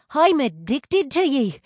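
high, loud, overexcited; gushing fan. A narrator's reading. Brianna admitting her obsession to the twins, gushing. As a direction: blurt it out, thrilled and high.

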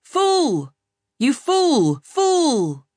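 high, loud shrieking cackle; cackling seabirds. A narrator's reading. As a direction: screech it like mocking gulls. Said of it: "they cackled".

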